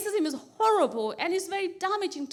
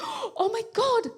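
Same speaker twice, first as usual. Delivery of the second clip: hammed-up shock, building louder; mock horror; 5 semitones higher, 5 dB louder than usual. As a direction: act appalled as it dawns on you. Gasped mock realization about the boy.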